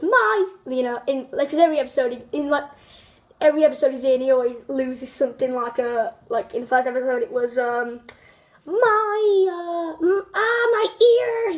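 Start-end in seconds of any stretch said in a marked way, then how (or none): 0.0-0.5 Joshua's whine. Retold or imitated. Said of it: "he always goes". 8.6-11.5 high, louder mock yelp of pain; pained cartoon wail. Joshua losing his ear, high mock cry of pain. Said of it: "he always goes".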